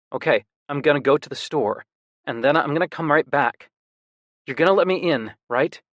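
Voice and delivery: a lightly voiced brother checking he'll be let in; determined younger brother.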